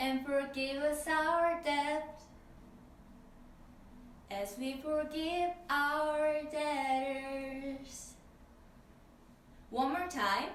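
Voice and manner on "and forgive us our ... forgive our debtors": slow, clear speech. Showing learners how to say a prayer line: slow and clear. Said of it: "Let's try it slowly and clearly".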